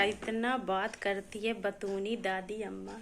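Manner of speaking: mother teases her chatty daughter, soft and slow; fond teasing. Real, not acted.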